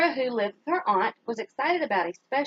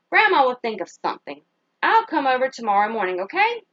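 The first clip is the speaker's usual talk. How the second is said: louder, confident grandma promise; reassuring grandma; 5 dB louder than usual. Acted. Grandmother reassuring Kenya on the phone, louder. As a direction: promise help to your granddaughter.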